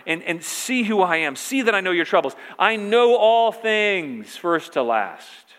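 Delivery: emphatic pulpit cadence, last phrase stretched out; insistent preaching. Acted. Preacher voicing Jesus' call not to fear, insistent preaching. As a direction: drive each clause home, building to the end.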